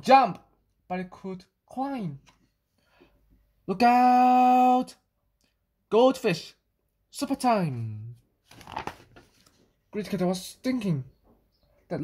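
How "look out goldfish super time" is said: loud, high gloating, slowing at the end; gleeful cat. Acted. The greedy cat spotting the goldfish, loud glee.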